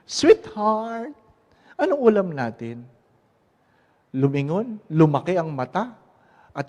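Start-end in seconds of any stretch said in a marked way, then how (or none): 0.0-2.8 calling out, closer. Acted. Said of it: "Humakbang uli".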